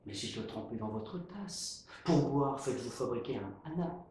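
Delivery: friendly. Acted.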